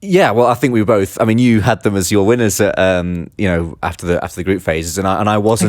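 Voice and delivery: smiling while talking. Real, not acted. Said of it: "I can hear your smile when you say it".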